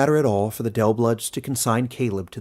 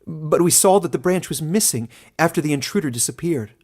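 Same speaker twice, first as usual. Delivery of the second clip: higher, louder worried witness; woman's voice; 7 semitones higher, 5 dB louder than usual. A narrator's reading. Woman witness insisting to the elder about the branch. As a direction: press the point to the elder. Witness continues her account.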